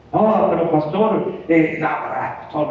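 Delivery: put-on slow, drawn-out objection of a young man; lightly voiced hesitant young churchgoer, dragging the words; muchacho reacio. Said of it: "me dirá el muchacho". (muchacho que objeta, lento y titubeante)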